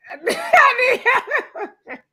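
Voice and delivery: high, slow wail broken by laughter; laughing so hard the plea cracks; laughing cry for help. Real, not acted. Laughing at her own joke while wailing for help.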